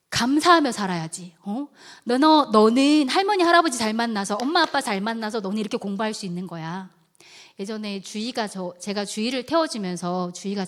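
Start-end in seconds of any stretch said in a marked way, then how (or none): 0.1-6.9 loud, insistent retold rebuke; teacher's lecture, easing off at the end; scolding lecture. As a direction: drive the reproach home to a child. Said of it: "제가 책망을 하겠습니다".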